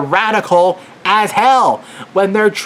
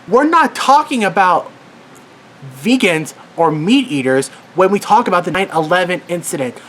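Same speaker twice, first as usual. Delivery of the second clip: real frustration boiling over; worked up. Real, not acted. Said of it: "Sorry, I'm getting, like, really worked up".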